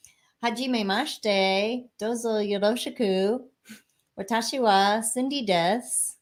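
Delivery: はじめまして said with a mild American accent; careful textbook Japanese with an American accent; self-introduction in American-accented Japanese. Real, not acted. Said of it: "I have a terrible accent".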